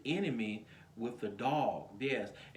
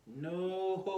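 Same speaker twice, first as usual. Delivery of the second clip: high, drawn-out no dissolving into laughter; laughing denial; 8 semitones higher than usual. Real, not acted. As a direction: laugh off the question. Laughs off the imagined question.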